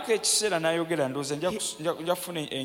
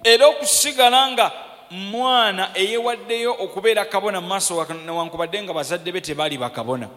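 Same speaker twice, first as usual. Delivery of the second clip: loud opening burst, easing as it goes; forceful preaching; 6 semitones higher, 10 dB louder than usual. Real, not acted. Preacher exhorting the congregation to stay dedicated, forceful preaching. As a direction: launch it hard from the pulpit, then settle.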